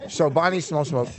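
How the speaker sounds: talking through a mouthful of sandwich; words round a bite of food; mouth full. Real, not acted. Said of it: "He's got a mouthful".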